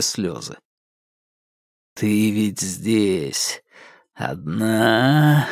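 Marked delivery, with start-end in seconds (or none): 1.9-5.5 low, very slow drawl of a killer; drawling psycho. A narrator's reading. The psycho questions Alka in the cellar, slow low drawl. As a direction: stretch every word like a slowed tape. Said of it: "протяжно спросил он".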